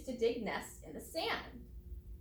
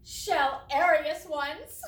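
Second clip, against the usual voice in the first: joke punchline; 4 semitones higher, 6 dB louder, much slower than usual. Acted. Teacher telling a joke.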